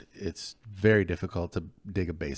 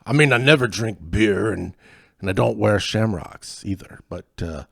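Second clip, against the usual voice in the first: loud, much higher stage Scots-Irish brogue; cartoon Scottish-Irish accent, pitched up and loud; hammed-up Scottish-Irish accent; 6 semitones higher, 9 dB louder than usual. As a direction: play a gruff Scotch-Irish lout, loud and high. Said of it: "I always wanna be good at accents".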